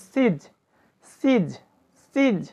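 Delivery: সিজ with a long, drawn ee. Shown as a demonstration. Teacher showing students the long ee in সিজ, long-vowel demonstration. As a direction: say সিজ alone, holding the long ee. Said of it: "তখন দীর্ঘিকারের মতো উচ্চারণ হবে".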